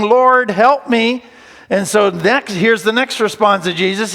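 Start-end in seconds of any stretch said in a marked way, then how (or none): 0.0-1.2 slow, begging plea; a mild, understated plea for help; pleading. Retold or imitated. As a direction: beg him slowly.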